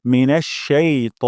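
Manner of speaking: মিনাশ শাই ত ending in short ত, no a; tajweed short ta; correct short t. Shown as a demonstration. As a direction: end on a clipped ত. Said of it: "তা বলবো না".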